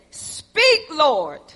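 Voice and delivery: measured, lifted call that falls away; solemn answer. Acted. Samuel answering the Lord, solemn and spaced out.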